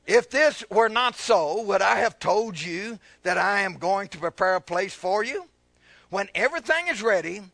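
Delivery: preached scripture reading. Real, not acted. Preacher reading Jesus' promise in modern English, emphatic. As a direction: read it out clearly with pulpit force. Reads scripture aloud to congregation.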